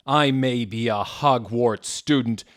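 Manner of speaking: slow, loud, deliberate words; lightly voiced angry Hagrid. Hagrid answering the taunt, angry. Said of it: "Hagrid paused angrily".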